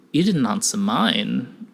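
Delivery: slow, measured comeback; unruffled stranger. Acted. Stranger deflects a researcher's question, calm and measured. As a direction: turn it back on them, unhurried. Gray calmly turns it back.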